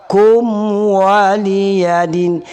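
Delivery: high chant with a short KUM; hurried recitation. Shown as a demonstration. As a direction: chant 'Kum' quickly without holding the hum.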